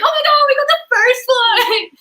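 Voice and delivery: high-pitched imitation of an excited sister; freaking out. Sister thrilled at getting the first one, imitated freak-out. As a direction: squeal it like a thrilled fan. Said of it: "my sister was freaking out".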